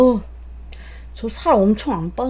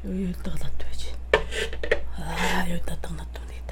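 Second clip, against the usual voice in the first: whispering; 5 semitones lower, 10 dB quieter than usual. Real, not acted. Unvoiced whisper to self.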